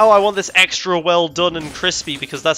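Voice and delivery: hammed-up, not very good American accent; mock American customer voice; bad American accent. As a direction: imitate an American diner, badly. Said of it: "that was not a good American accent".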